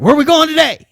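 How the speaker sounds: bright high mock-buddy invite; eager buddy. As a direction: chirp it like a friend ready for fun.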